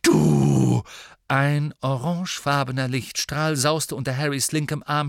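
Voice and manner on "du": high mocking cackle, much higher, louder; Ginny jeering at Ron; shrill scornful laughter. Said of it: "brach in schrilles Hohngelächter aus".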